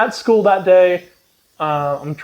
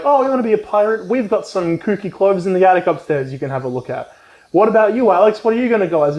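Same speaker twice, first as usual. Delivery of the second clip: chirpy uncle; 5 semitones higher than usual. Retold or imitated. Uncle Arnie voiced in story.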